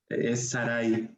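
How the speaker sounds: slow, careful Sarai; Sarai pronunciado como diptongo. Shown as a demonstration. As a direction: say Sarai with the ai as one glide. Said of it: "Pero el nombre, eh, correcto". (Sarai con diptongo, despacio)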